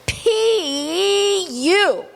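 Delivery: high, mock disgusted groan. Shown as a demonstration. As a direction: show the kids how to say yuck. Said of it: "you're gonna say things like".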